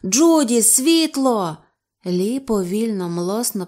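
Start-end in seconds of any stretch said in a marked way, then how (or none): 0.0-1.6 high, loud demand; urgent shout. A narrator's reading. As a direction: shout desperately for the light. Urgent shout for light in danger.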